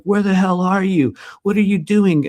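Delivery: mock impatient client. Client texting, voiced by speaker.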